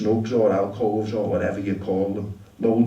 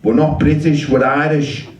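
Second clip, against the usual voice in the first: mildly snarled correction, raised voice; 4 semitones higher, 6 dB louder than usual. Acted. Irish drinker correcting an American tourist, mild snarl. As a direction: correct him loudly, higher, with some bite. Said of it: "snarls over".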